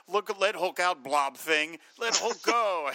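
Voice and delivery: Hulk. Retold or imitated. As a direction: bellow like a trapped brute. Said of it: "He's so mad".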